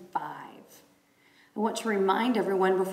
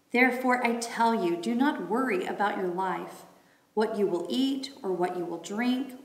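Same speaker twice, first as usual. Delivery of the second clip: raised, proclaiming reading voice; scripture reading. Acted. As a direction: read it out like a lesson.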